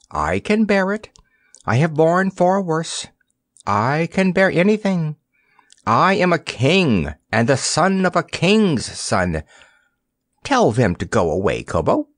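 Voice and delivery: put-on high, dignified young king's voice; a proud little king hiding his hurt; lightly voiced proud boy. Boy king speaking in story.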